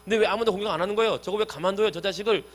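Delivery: mildly indignant, hurried questioning; quick mock outrage; retold indignation. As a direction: act out David's annoyance, lightly. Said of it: "막 화를 냈더니".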